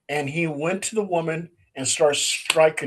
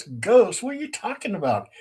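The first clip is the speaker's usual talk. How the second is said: higher, fast, half-acted disbelief; incredulous host; 4 semitones higher than usual. Host hearing his neighbors call his photo ghosts, mild mock disbelief. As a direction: brush it off as nonsense, lightly played. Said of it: "He goes".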